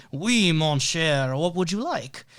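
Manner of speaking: lightly imitated French accent, drawn-out opening. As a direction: put on a slow, playful French accent. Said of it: "in his best French accent".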